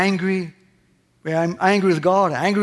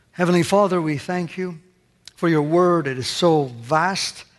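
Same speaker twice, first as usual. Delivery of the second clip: closing prayer. Acted.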